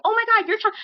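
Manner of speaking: high-pitched mock protest; put-on high, exasperated voice; imitating an exasperated castmate. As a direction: exclaim it high, as if appalled. Acts out castmate's exclamation.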